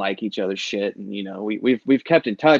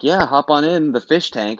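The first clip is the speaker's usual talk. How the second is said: put-on laid-back Boston accent, a bit louder; easygoing Boston guy accent; 4 semitones higher, 5 dB louder than usual. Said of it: "this Boston Northeast accent just be like".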